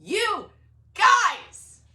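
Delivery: high, loud, excited outburst; loud and giddy, ending in a yell; freaking out. Real, not acted. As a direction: cry it out, overwhelmed. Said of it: "I'm freaking out".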